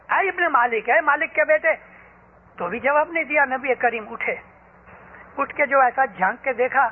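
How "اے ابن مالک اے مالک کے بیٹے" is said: loud call. Retold or imitated. The Prophet calls Anas a third time, calling out loudly. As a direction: call out higher and louder. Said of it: "حضور نے زور سے".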